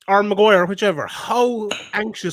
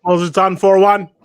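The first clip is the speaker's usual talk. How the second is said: louder and slow, calling out a bet; slow shouted callout; 6 dB louder, slower than usual. Real, not acted. Friend announcing his bet to the lads, slow shout. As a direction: call it out across the room.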